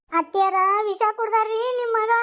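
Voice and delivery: crying out that he drank poison; tearful wife to mother-in-law; sobbing news. Acted. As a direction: break the news through sobs.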